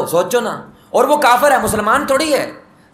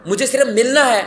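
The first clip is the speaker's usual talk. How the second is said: higher, louder desperate call from afar; calling out loudly; 5 semitones higher, 3 dB louder than usual. Acted. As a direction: shout after the riders to stop them. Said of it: "زور سے آواز لگائی". (سراقہ دور سے پکارتا ہوا، اونچی آواز میں)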